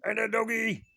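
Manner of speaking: high sing-song talk to a pet. Real, not acted. Baby talk to the dog.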